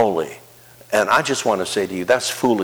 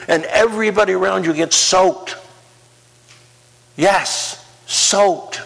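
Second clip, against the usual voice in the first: rising preaching; 8 semitones higher than usual. Acted. Pastor promising the congregation overflowing life, building preaching. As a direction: climb higher and higher, driving to "soaked".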